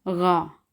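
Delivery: गा with a throaty Urdu ghain; guttural German R. Shown as a demonstration. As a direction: say गा starting on "gh", made in the throat. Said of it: "गैन की आवाज़ निकालनी है".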